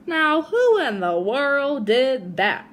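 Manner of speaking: slow, drawn-out puzzled exclamation; exclaimed. Acted. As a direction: demand it slowly, startled by the crash. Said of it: "he exclaimed".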